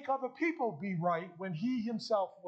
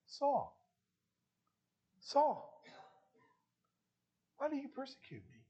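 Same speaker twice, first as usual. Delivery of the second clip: higher call with long pauses, falling soft; tender; 5 semitones higher, 4 dB quieter than usual. Acted. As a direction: gently call his name, then ask softly. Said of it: "it was a tender voice".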